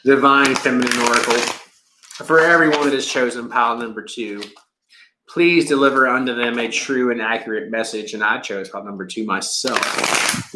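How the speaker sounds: lightly formal reading invocation. Acted. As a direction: call on the oracle earnestly. Invocation to oracle deck.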